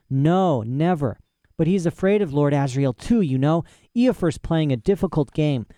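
put-on high, fussy old scholar voice; eccentric old professor. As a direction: play a proud, rambling old professor. Professor explains politics.

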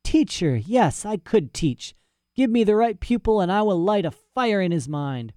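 put-on high-pitched old scholar warming to an idea; soothed mad professor. Flattered professor imagines himself teaching, grandiose.

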